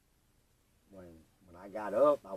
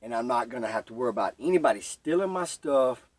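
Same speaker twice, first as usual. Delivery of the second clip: excited relief; 3 semitones higher, 6 dB louder than usual. Retold or imitated. Retold relief in sunroom.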